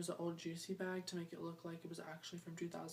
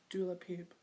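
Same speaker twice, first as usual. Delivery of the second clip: whisper. Real, not acted. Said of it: "I sounded like".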